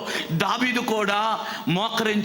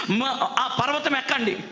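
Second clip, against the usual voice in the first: stern command; 5 semitones higher than usual. Acted. God ordering them up the mountain.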